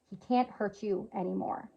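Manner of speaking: soft, hushed retelling of a whisper; imitated whisper. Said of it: "she whispered in my ear".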